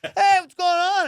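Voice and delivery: slow, high, sugary mock greeting; fake nice. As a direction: drag it out, falsely friendly. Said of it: "they do that fake nice shit".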